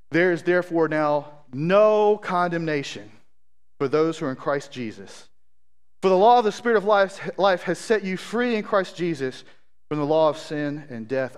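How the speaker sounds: emphatic scripture reading, stretching NO. Real, not acted. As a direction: read the verse out with conviction. Reads scripture to the congregation.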